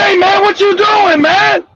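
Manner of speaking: indignant "what are you up to" voice; mock confrontation. Acted confrontation with brother.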